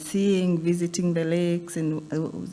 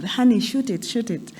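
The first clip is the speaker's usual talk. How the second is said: mock call to a wife, pitched up; lightly acted, higher-pitched cry; retold calling out; 4 semitones higher than usual. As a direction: imitate a man calling for help. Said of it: "he's calling out to the wife".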